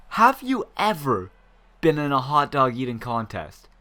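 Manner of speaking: mock staff voice. Mimics staff asking odd question.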